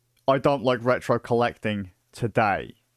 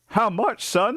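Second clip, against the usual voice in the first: high, eager how much; pitched-up eager question; eager ask; 8 semitones higher, slower than usual. Retold or imitated. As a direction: jump at the price, excited. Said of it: "I was like".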